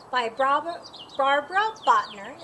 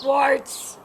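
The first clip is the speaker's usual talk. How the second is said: shout; 3 semitones lower, 4 dB louder than usual. A narrator's reading. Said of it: "I shout".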